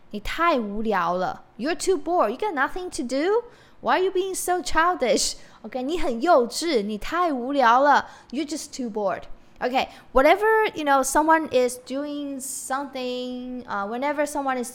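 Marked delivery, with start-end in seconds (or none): 0.1-5.3 mock scolding. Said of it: "You can say". 5.6-10.7 teasing scold. Retold or imitated. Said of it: "You can say".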